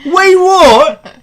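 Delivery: loud, high mock-British outburst; incredulous Brit, pitched right up; put-on British indignation; British accent. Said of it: "all gonna talk in a British accent".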